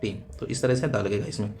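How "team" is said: very slow, each word apart; slow example sentence. Shown as a demonstration. Teacher reading an example sentence aloud for students, very slowly. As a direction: read the sentence out slowly for the class. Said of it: "the best for सबसे अच्छा होता है".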